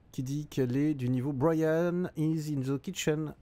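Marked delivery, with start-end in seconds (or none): 1.3-3.3 put-on English in a thick French accent; slow, French-accented schoolbook English. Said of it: "avec un accent bien français".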